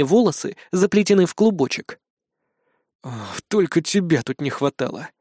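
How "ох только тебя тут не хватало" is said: low, soft resigned sigh; weary groan at the unwanted guest; doomed sigh. A narrator's reading. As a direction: sigh it out, already defeated. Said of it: "обречённо вздохнул я".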